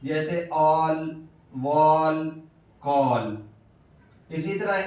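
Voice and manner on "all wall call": all drawn out slowly, then wall and call, each with a long open aw vowel; vowel demo. Shown as a demonstration. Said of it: "اے سے الف مدہ کی آواز".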